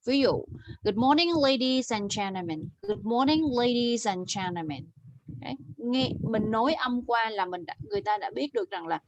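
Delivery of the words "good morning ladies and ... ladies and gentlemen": "ladies" with its final s clearly sounded; clear ending sounds. Shown as a demonstration. Teacher showing Bích the lost ending sounds, clear endings. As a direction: model "ladies and gentlemen" with every final consonant. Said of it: "ending sounds của em bị mất khá là nhiều".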